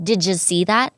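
"Did you see that?" drawn out slowly, linked; slow demo with a rising "that". Shown as a demonstration. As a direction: spell out each joined sound slowly. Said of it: "หรือว่า".

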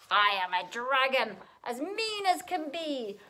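loud dragon proclamation; scary dragon. A narrator's reading. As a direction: boast as a mean dragon. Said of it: "a roar that was scary and loud".

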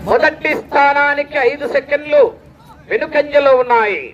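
ordinary-pitched restatement, paused before the final phrase; measured announcer repeat. Real, not acted. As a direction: repeat it evenly in two parts. Same result repeated in lower pitch.

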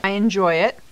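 speaking around chewy candy; chewing while talking. Real, not acted. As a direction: mouth partly full of candy. Seen 0: Both women hold candy pieces; jaw and lip movement suggest chewing.

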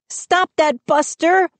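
high, pleading call to the dog; Mindy pleading. A narrator's reading. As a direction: beg the dog to stop. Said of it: "Mindy pleaded".

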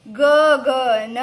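drawn-out loud ગગન syllable by syllable; teacher modelling ગગન slowly; slow loud model word. Shown as a demonstration. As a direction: stretch ગગન slowly and loudly for the class. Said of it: "જોરથી બોલજો".

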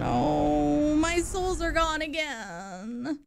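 slow, stretched-out lament; mournful moan. Real, not acted. Player who just lost their souls, slow mournful moan. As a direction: draw the words out in defeat. Lost progress after wrong button.

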